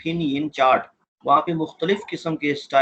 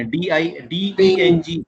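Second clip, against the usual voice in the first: slow syllable prompt; much slower than usual. Shown as a demonstration. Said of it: "एक को बोले".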